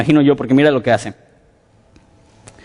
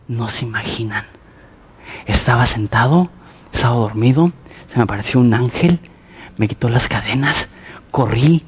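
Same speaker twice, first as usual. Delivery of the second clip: hushed storytelling; 4 semitones lower than usual. Retold or imitated. Pedro recounting escape at candle table.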